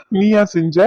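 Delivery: teasing repeat of sister's jibe; mocking echo. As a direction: throw her words back mockingly. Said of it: "என்ன, என்ன சொன்ன?". (கேலியாக திருப்பிச் சொல்லுதல்)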